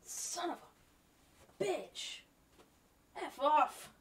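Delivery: panicked shout at a bug; screaming at a spider. Real, not acted. Spider found in the room.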